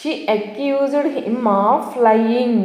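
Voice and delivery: very slow, word-by-word example sentence; slow dictation. Shown as a demonstration. Teacher reading an example sentence to students, very slow. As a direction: read it out word by word for learners. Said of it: "example ద్వారా ఎలా వాడాలనేది".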